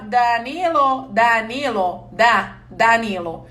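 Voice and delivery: slow, halting "Da, Danilo" as the in-laws mock it; mocked stammering. Wife imitating how her in-laws tease her saying her husband's name: slow, halting. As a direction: stumble slowly over "Danilo". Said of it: "eles falam que eu falo assim".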